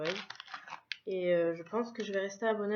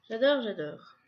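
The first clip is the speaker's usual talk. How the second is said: a louder, gushing "j'adore, j'adore"; excited j'adore; 8 dB louder than usual. Real, not acted. A louder repeat to viewers, gushing over the cute card holder. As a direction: blurt it out in real delight.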